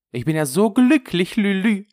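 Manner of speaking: high, loud burst of happiness; delighted outburst. Acted. Friend rejoices at Lulu's news. (begeistert und überglücklich)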